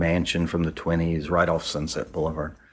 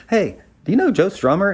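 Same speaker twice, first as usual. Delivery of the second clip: excited introduction; 12 semitones higher, 5 dB louder than usual. Retold or imitated. Friend excitedly introducing a singer.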